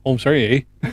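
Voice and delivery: a hint of hammed-up Canadian; Canadian accent. Acting out Canadians saying sorry after insults, mock Canadian accent. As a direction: lightly mimic an apologetic Canadian. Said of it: "It's part of the Canadian accent".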